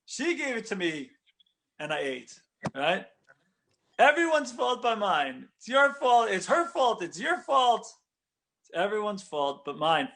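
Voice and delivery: Adam pushing the blame onto Eve and God; blame-shifting. Retold or imitated. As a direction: point at everyone else, mildly hammed up. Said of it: "Shifts the blame".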